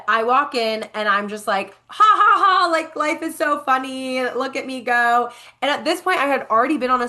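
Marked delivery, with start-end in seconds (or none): 1.9-5.3 high, loud mock laugh settling into a pleased boast; hammed-up glee. Walking into the booth in her story, hammed-up glee. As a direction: laugh it out big, then ease down.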